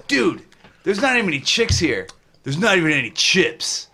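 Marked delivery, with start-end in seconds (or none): 0.1-2.1 lightly voiced party dude quote; frat bro. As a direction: quote the movie like a frat guy. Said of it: "One of my favorite things is P C U".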